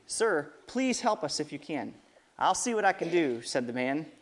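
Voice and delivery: lively storybook reading with voiced quotes; storyteller voice for kids; reading to children. A narrator's reading. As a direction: read it out to the kids at church.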